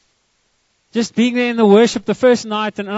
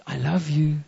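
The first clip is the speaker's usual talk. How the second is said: tender father; 6 semitones lower, 4 dB quieter, slower than usual. Retold or imitated. Father tenderly soothes his daughter.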